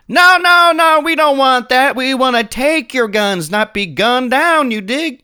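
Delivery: high, loud, frantic mustached lawman; giant mustache. Acted. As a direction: shout it high to defuse the standoff. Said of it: "the giant mustache goes".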